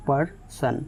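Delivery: पर्सन split by a pause into पर and सन; two separate syllables. Shown as a demonstration. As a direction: break पर्सन into two beats, one per chin drop. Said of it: "आपकी चिन दो बार नीचे जाएगी". (पर्सन को दो हिस्सों में तोड़कर)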